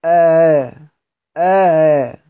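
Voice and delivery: آه with the second hamza softened into a glide; eased hamza. Shown as a demonstration. Teacher shows a hamza beside another, eased hamza on آه. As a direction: hold آه between hamza and alif. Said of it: "واللي جنبها تاني الهمزة مسهلة".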